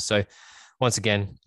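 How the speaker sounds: raspy, worn-out voice; hoarse voice. Real, not acted. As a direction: speak with a sore, hoarse throat. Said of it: "Me and my hoarse voice".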